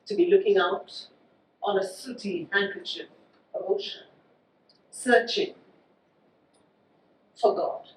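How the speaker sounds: measured poetry reading with deliberate pauses; poem recitation. Acted. Poet reads a city poem to an audience, measured recitation. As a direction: let each phrase land, pausing at the line breaks.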